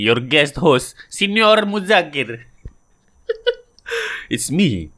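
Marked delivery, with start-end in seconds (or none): 0.0-2.4 hammed-up Italian host intro; playful caricature Italian accent, drawn out on the name; mock Italian accent. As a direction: announce yourself in a fake Italian accent. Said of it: "pretending to do an offensive Italian accent".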